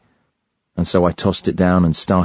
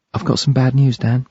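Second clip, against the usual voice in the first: higher, gentle woman's voice breaking bad news; Kirsty's bad news; 7 semitones higher than usual. A narrator's reading. Kirsty tells Dan bad news, lightly voiced woman. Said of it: "she said".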